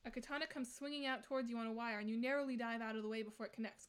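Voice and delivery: normal talking voice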